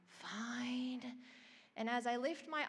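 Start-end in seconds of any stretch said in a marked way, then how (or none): 0.1-1.0 reluctant sigh. Retold or imitated. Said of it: "I kind of had this big sigh".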